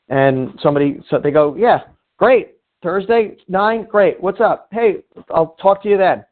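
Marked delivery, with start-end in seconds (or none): 1.6-6.2 higher, cheerful yes to coffee; friendly upbeat acceptance; eager agreement. Retold or imitated. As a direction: sound glad to be asked.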